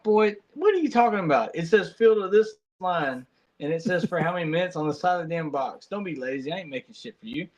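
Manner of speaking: mock scolding dad.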